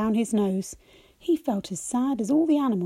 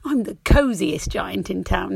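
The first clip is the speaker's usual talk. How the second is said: happy cry; 2 semitones lower, 4 dB louder than usual. Acted. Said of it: "he cried".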